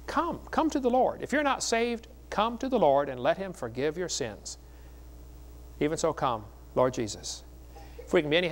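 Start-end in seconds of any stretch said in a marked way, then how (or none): 0.1-3.1 a high, lifted plea; pleading altar call. Real, not acted. Preacher invites the unsaved to come, high and pleading. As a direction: call them forward, voice soaring up.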